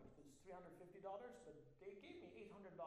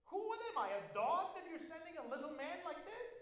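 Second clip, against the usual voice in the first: booming high giant voice, much louder; Goliath's mocking roar; 10 semitones higher, 13 dB louder than usual. Giant scorns little David with a booming roar. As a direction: bellow the insult at a boy.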